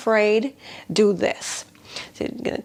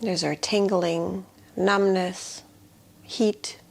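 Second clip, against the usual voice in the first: guided meditation. Shown as a demonstration. Healer guiding attention into the palms, guided meditation. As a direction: invite them to notice, leaving long silences. Leads body awareness meditation.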